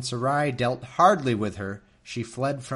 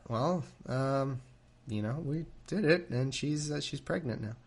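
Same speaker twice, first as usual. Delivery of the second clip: nervous Abram; 3 semitones higher, 4 dB quieter than usual. Retold or imitated. Abram admitting the pregnancy to Sarai, shrinking and hesitant. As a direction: mumble it out like a guilty husband. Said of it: "Abram goes".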